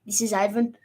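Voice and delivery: lightly voiced Russian accent. Shown as a demonstration. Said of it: "Say it again".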